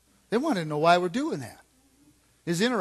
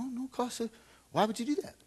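mock disbelief; 8 semitones higher, 6 dB quieter than usual. Mimicking reporter's disbelief.

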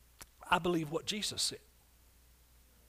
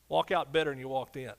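normal talking voice

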